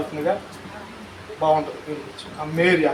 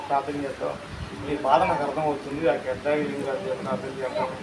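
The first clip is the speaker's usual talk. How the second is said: much softer, lower secretive voice; hushed whisper; 4 semitones lower, 6 dB quieter than usual. Retold or imitated. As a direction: whisper so the family can't hear. Hushed dialogue in hospital continues. (రహస్యంగా గుసగుసలాడే nurse)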